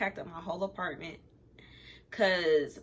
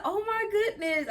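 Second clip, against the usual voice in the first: laughing disbelief; 11 semitones higher than usual. Retold or imitated.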